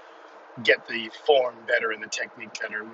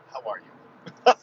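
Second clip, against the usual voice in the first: slow, drawn-out playful greeting, louder; mock greeting; 7 dB louder, much slower than usual. Podcaster hamming up a hello to his two listeners, slow and loud. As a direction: stretch it out like a cheesy host.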